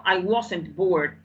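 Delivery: slow, careful classroom reading of I wasn't bored; slow model sentence. Shown as a demonstration. Teacher modelling the contraction for her class, slowly. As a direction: read it out slowly for the students. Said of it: "Ok, contraigo".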